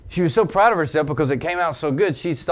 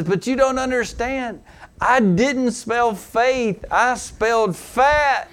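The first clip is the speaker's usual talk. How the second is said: sheepish confession; 10 semitones higher, 4 dB louder, much slower than usual. Retold or imitated. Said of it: "confessing her mix-up".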